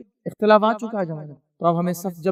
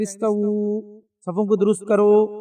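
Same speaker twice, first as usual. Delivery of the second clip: slow announcement; much slower than usual. Retold or imitated. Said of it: "اعلان کرتے".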